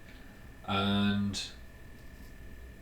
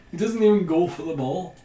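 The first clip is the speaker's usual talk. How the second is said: amazed disbelief; 6 semitones higher, 7 dB louder than usual. Real, not acted. Reacting to Rooney's foul.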